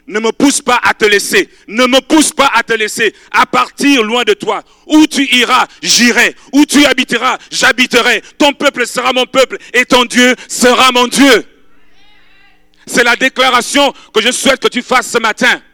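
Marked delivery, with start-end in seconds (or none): 0.1-11.5 raised, earnest plea; pleading young widow. Acted. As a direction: beg to stay with her. Ruth pleads with Naomi.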